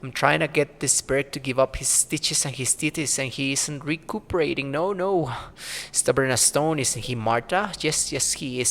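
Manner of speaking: lightly voiced old crone, muttering to herself; a hint of a grumbling crone; mumbling old crone. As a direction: play a cranky old hag talking to herself. Marta explains her work.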